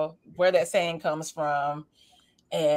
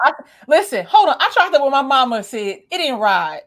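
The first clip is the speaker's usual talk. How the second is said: excited; 8 semitones higher, 9 dB louder than usual. Retold or imitated. Excited retelling to his mom.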